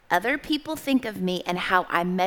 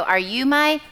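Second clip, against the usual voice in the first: higher storybook chick, left hanging; baby bird's question; 4 semitones higher, 4 dB louder than usual. Acted. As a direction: cue the listeners to finish the question. Bird's question, cueing the audience.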